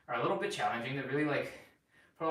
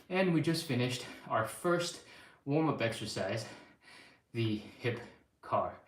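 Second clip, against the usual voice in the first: winded and puffing between phrases; talking while still catching breath. Real, not acted. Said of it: "if it sounds like I'm out of breath".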